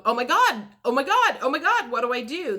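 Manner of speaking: loud, quick, laughing oh my gods; flustered panic. Retold or imitated. The client overwhelmed after hearing yes, giddy panic. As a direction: gush it out, half laughing, in a fluster. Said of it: "you're like going".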